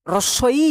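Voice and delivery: রস্বই said slowly with the lips stretched wide; teacher spelling out রস্বই, lips spread; demo vowel. Shown as a demonstration. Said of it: "একটু ভালো করে".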